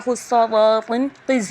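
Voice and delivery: "خصاواتن قز" slow with full, thick consonants; heavy letters. Shown as a demonstration. Teacher gives the letters' mnemonic, slow heavy sound. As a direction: draw out "خصاواتن قز" heavily. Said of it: "ہمیں پر آواز رکھنی ہے".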